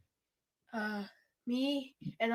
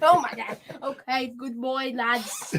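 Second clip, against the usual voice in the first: put-on English accent; 6 dB louder than usual. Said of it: "England man".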